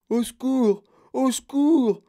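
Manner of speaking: appel au secours qui monte, de plus en plus aigu et fort; brailler, de plus en plus lent; braillé. Acted. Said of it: "brailla-t-il". (l'enfant coincé braille au secours, de plus en plus aigu)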